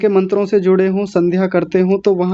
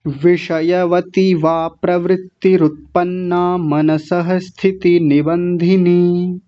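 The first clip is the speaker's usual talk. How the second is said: slow recitation; slower than usual. Shown as a demonstration. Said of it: "पूरे का देखिए".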